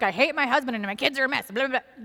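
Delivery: quick, tossed-off mock complaint; mock venting. Speaker mimics people who just vent about everything, mock venting. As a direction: rattle it off as an imitation of a ranter. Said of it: "just vent about everything that's hard".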